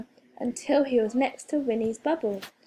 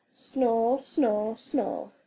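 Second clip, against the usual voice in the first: snoring; much slower than usual. A narrator's reading. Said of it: "began to snore".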